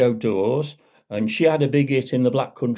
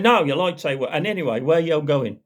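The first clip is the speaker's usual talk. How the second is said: constable voice; 5 semitones higher, faster than usual. Acted. Constable persists at driver.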